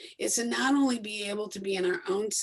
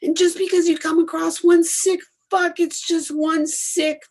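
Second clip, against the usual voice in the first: impassioned; 7 semitones higher, 8 dB louder than usual. Real, not acted. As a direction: drive every word home. Fired-up motivational pep talk.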